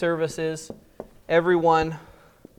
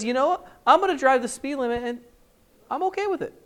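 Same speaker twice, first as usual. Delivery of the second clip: mock contented; 8 semitones higher, faster than usual. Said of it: "a changed heart says".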